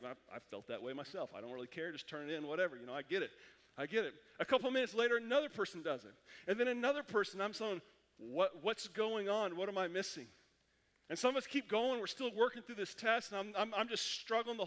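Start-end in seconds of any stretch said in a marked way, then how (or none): 0.1-4.1 resigned indifference. Retold or imitated. Student to himself as another walks out, resigned indifference. Acted shrug at a quitter. 8.2-10.3 slow, drawn-out puzzled question; acted bewilderment. Student watching classmates leave early, bewildered. Acting out his growing confusion.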